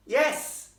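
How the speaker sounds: put-on loud, high, impatient girl; irritated high-pitched yes. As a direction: blurt it loudly, losing patience. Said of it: "becoming a tiny bit irritated".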